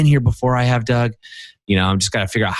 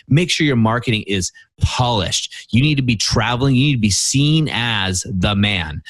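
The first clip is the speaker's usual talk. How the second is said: retelling very sure, insistent advice; mildly emphatic quoted lecture, certain of every point. Retold or imitated. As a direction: lay it down like someone who knows the answer. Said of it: "said very emphatically".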